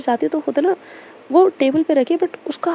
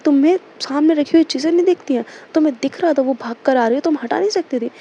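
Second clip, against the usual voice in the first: scolding. Retold or imitated. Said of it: "डांटने लगती है".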